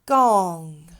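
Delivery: Gong said clearly with the ng; model word. Shown as a demonstration. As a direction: blend Gong together. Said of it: "Go ahead".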